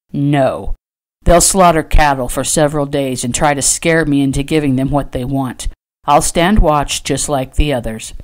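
a hint of a determined rancher; stubborn rancher. Trader refusing to stay indoors, firm.

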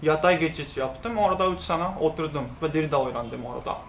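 Japanese accent in Turkish; careful learner's Turkish, Japanese accent; foreigner broken turkish. Real, not acted. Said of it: "Türkçem kötü".

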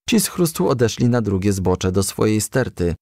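plain reading voice

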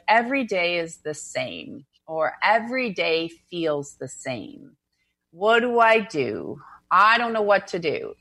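slow, dragged-out mild gloom; gloomy, like Eeyore. Acted. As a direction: lightly imitate a downhearted moaner. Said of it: "It's sorta like Eeyore".

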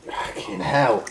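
talking with burning tongue; mouth burning from sour candy. Real, not acted. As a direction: speak through a stinging tongue. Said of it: "My tongue is burning".

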